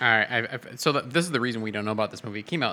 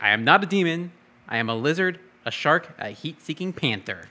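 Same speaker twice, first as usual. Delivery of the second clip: mock dramatic quote; 5 semitones higher, 5 dB louder than usual. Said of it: "It's like".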